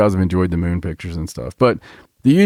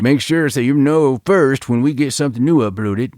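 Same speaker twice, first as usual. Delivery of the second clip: higher, put-on YouTuber voice; YouTuber plug; 6 semitones higher than usual. Host mocking YouTubers' upload reminders, high YouTuber voice. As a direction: do a mock YouTuber sign-off, pitched up. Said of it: "I'll sound like all those YouTubers".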